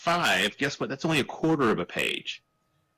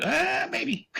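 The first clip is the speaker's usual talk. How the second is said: very high retold voice; squeaky, hammed-up uncertainty; mock doubtful squeak. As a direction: imitate a hesitant friend way up high. Retold friend's doubtful reply.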